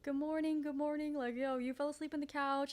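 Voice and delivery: soft, careful wake-up voice; super gentle. Retold or imitated. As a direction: ease a sleeper awake gently. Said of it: "I'm, like, super gentle".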